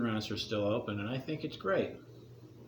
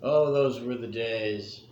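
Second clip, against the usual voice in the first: storyteller voice. Acted. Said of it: "Gather around, kids".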